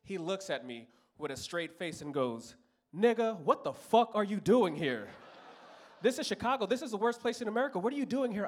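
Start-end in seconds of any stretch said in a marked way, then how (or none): 2.9-8.5 lightly voiced baffled cop; incredulous cop. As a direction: scold him like a street-wise cop. Cop voicing disbelief.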